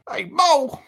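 loud, high call across a ballpark. Pretend. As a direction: shout his name to get his attention. Calling out to Mike O'Malley.

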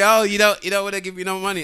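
lightly voiced woman, mock; a hint of a woman's voice; man doing a woman's voice. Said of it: "That's my woman voice".

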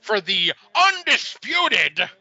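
slow, booming manager promo voice; wrestling promo. Pretend. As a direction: announce it like a pompous wrestling manager. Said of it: "imagine I become friggin' Sid Justice's advocate".

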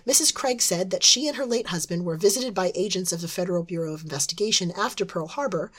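a hint of a smoky old newsreader; smoky news reporter. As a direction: read it like a vintage TV reporter. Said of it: "my best reporter voice, a smoky voice".

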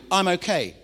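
a plain, falling answer; flat brush-off. Shown as a demonstration. Congregant brushing off the pastor, flat and falling. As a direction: shrug it off, hiding the truth. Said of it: "Do you say that sometimes?".

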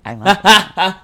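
high, loud gush; excited. Real, not acted. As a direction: squeal with delight. Enthusiastic praise.

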